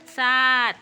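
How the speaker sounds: loud, full-voiced number; loud counting. Shown as a demonstration. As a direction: show the pupils how to count out loud. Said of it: "जोरात बोलायचं, मस्त मस्त आवाज काढायचा".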